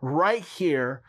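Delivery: slow, earnest prayer voice. Acted. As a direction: pray it slowly and earnestly. Prays over viewers.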